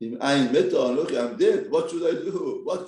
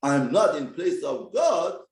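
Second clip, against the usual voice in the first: slow shouted quote. Retold or imitated. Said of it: "what you said to her".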